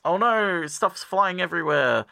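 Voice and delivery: high, hammed-up oh no; mock alarm. Retelling the dog wrecking home ec class, mock alarm. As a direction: play up the panic lightly.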